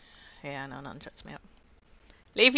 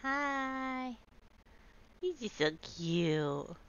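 slow cooing; 6 semitones higher, 5 dB quieter, much slower than usual. Real, not acted. Cooing at a Pokemon.

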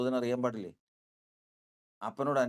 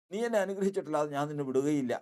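insistent vow; 3 semitones higher, faster than usual. Acted. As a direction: raise it into a determined cry. Jacob repeats the vow, stronger.

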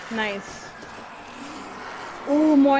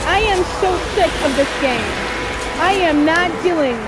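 raging gamer. Real, not acted. Gamer rants after losing.

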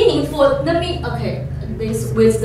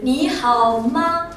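slow clear demo; 3 semitones higher, slower than usual. Shown as a demonstration.

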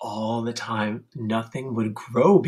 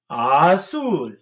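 sneeze azul; 3 semitones higher than usual. Shown as a demonstration. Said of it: "blue dog sneezes".

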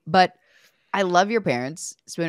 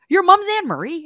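much higher and louder starstruck question; excited disbelief; 14 semitones higher, 9 dB louder than usual. Retold or imitated. Teammate replaying her starstruck question, high excited disbelief. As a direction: squeal it in disbelief. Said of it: "So I'm like".

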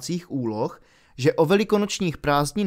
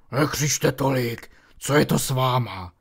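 hushing Hagrid; 2 semitones lower than usual. A narrator's reading. Hagrid tiší děti v knihovně, pomalu a tlumeně. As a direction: shush them before anyone hears.

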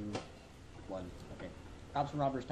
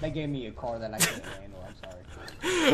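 put-on southern accent; 3 semitones lower, 4 dB louder than usual. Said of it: "my overemphasized southern accent".

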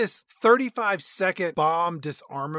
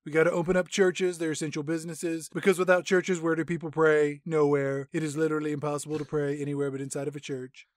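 satirical president, monotone and self-assured; mock president; 2 semitones lower than usual. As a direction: deliver it as a pompous mock president. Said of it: "we cut over the president".

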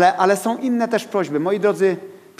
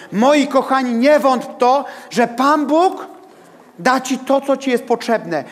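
high, raised-voice scripture proclamation; full-force preaching; 5 semitones higher than usual. Real, not acted. Preacher proclaims James to congregation about tested faith, full-force preaching. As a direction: drive each phrase home with high, ringing emphasis.

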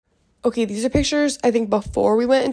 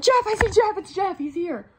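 retold excited squeal; 8 semitones higher than usual. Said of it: "and I'm like".

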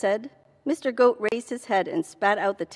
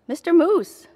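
calling out; 8 semitones higher, 7 dB louder than usual. Acted. Rabbit calls out from hole.

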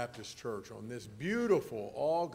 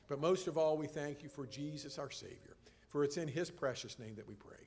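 prayer. Acted. Pastor leads opening prayer.

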